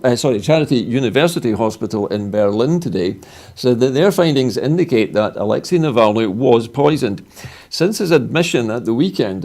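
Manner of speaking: measured news bulletin delivery; news read. Acted. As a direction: read the statement out as a newsreader. Reads a news statement.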